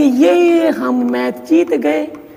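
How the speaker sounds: slow, drawn-out, triumphant cheer.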